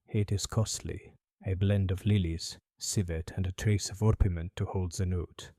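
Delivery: put-on a faint French accent, bowing politely; light French accent. Perfumer greeting Holmes, faint French accent. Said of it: "faintest trace of a French accent".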